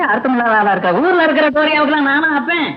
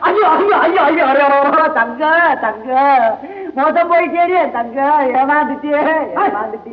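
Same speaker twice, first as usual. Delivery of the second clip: keening mother's wail, voice breaking; wailing lament. Acted. Mother wails over her cheated daughter, a keening lament. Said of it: "எடுத்துக்கணும் ஒப்பாரியா?".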